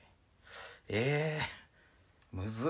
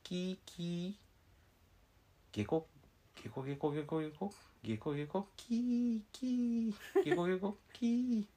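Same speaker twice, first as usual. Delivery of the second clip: alternating monkey screeches and frog croaks; monkey and frog noises; 5 semitones higher than usual. Pretend. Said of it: "猿はキーとしか言えない".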